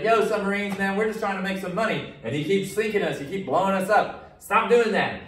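high, loud exasperated bro voice; mock American complaint. Teacher voices America scolding German submarines, high and loud. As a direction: whine at the submarines like a fed-up dude. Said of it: "They're like".

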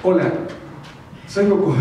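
put-on high, loud excited kid voice; bright young hero greeting; Goku voice. Voice actor intro as Goku.

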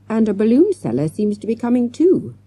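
high-pitched, gasped warning; gasping. A narrator's reading. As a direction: gasp it out while hurrying. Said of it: "he gasped".

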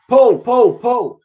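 high, repeated shouted commands; frenzied yelling. A narrator's reading. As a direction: drive them on like a demon. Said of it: "He was like a demon".

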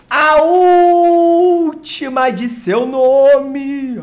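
mock herald announcing the last pack; epic proclamation.

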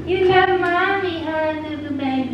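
put-on baby talk. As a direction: coo to a baby.

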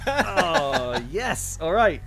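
high, loud and eager. Acted. Eager character reply.

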